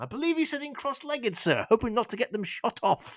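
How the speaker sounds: very high British banter voice.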